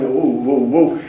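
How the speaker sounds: light, low spooky "woo"; mock ghostly wooing. Acting out the hovering Grim Reaper, mock spooky.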